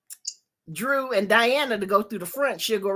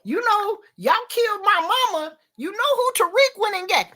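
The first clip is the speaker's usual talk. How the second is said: retold gloating; 11 semitones higher than usual. Gloating as character in retold scene.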